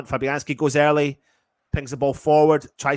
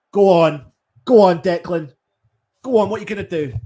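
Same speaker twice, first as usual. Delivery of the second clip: excited urging; 5 semitones higher, 8 dB louder than usual. Real, not acted. Urging player on during attack.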